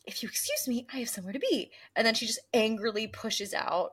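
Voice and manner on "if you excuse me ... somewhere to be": cold whisper. Retold or imitated. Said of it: "she just goes".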